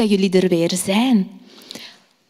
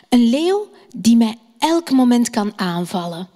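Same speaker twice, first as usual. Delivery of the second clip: gentle storytelling voice for little ones; story for children. Acted. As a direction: tell it like a bedtime story. Teacher tells bedtime story to children.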